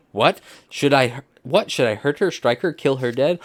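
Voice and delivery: a touch of theatrical outrage, pitch lifted; acted yelling. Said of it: "Everybody is just yelling at this point".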